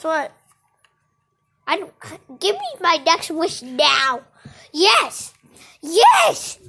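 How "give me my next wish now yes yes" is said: play-acted demand. Demanding wish from the unicorn.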